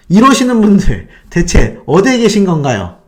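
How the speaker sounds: mock interrogation of the fans; teasing. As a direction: tease them with pointed questions. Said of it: "놀리면서 막 이렇게 얘기를 합니다".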